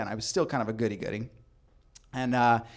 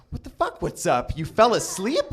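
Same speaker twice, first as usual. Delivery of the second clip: high, loud disbelief; why are you asleep, shouted up; exasperated outburst; 7 semitones higher, 6 dB louder than usual. Retold or imitated. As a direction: boyfriend left waiting at her window, exasperated. Angry at girlfriend asleep.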